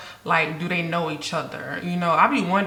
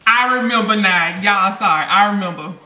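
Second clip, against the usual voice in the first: sudden recognition; 5 dB louder than usual. Real, not acted.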